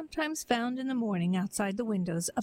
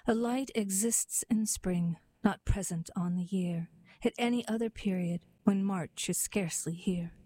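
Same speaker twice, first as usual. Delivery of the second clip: poem reading. Acted. Narrator reciting a Dickinson poem, gently measured.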